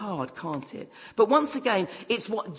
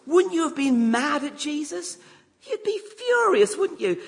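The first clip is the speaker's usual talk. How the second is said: rising indignation; 8 semitones higher, 4 dB louder than usual. Real, not acted. Preacher rouses listeners over Jairus.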